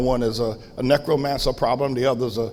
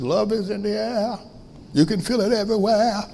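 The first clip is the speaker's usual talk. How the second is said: higher, softer mock West Indian lilt; West Indian accent; 6 semitones higher, 5 dB quieter than usual. Pastor quoting Grandma on love in the air, West Indian accent. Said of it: "in that West Indian accent".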